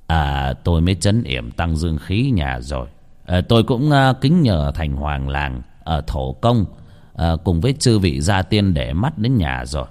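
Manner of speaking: a village exorcist weighing his words; lightly voiced old exorcist. Exorcist to the family, lightly voiced, hesitant.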